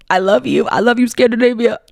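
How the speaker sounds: laughing I love you. Real, not acted. Host gushing to Scandinavian listeners, laughing. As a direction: gush through a laugh.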